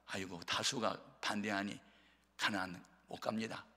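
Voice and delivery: hypothetical timid leader, voice dropped; meek giving in. Pretend. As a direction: back down feebly before the majority. Voices Moses giving in to majority.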